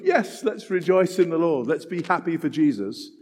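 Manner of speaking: mock shallow cheer. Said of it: "does that mean just sort of".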